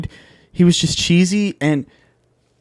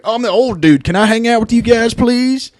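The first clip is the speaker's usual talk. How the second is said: lightly voiced whiny old-timer, pitch rising; hint of a pleading old wrestler; imitating Hulk Hogan; 6 semitones higher than usual. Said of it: "he doesn't have that accent".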